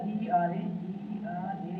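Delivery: letters spelt out slowly one by one; teacher spelling a word for pupils. Shown as a demonstration. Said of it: "spelling out the word".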